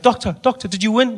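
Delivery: high-pitched, eager mock question; eager relative. Relative asking doctor the result, eager high voice. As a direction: imitate someone hopefully pressing for news.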